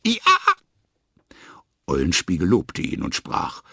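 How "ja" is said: high happy Ja; joyful cry. A narrator's reading. The donkey reads the next word first, crying out happily. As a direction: call out the word gladly. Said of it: "rief er freudig".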